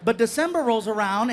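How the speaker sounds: ordinary talk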